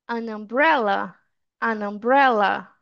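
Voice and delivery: "an umbrella" slowly as "a-numbrella"; linked vowel sound. Shown as a demonstration. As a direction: join "an" onto the "uh" of "umbrella". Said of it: "tem som de vogal".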